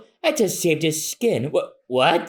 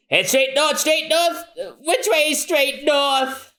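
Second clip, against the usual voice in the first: much higher, puzzled; high confused voice; 10 semitones higher than usual. Acted. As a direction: squeak the question in confusion.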